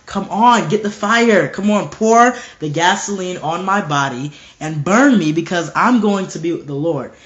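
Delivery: acted-out impatient urging; eager martyr. Polycarp daring his executioners to burn him, eager and insistent. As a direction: urge them on, punching the commands. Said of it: "he was like that".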